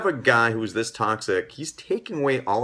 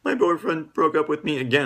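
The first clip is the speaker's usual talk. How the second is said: upset daughter; 7 semitones higher than usual. Retold or imitated. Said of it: "she's just coming back to you crying".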